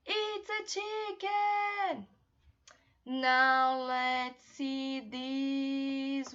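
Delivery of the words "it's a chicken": model answer. Shown as a demonstration. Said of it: "so let's repeat".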